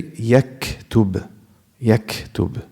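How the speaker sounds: yaktub with audible breath after K; breathy K release inside yaktub; hamis on sakin kaf. Shown as a demonstration. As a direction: let the K in yaktub release air before tub. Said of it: "When it's sakina, you can hear it".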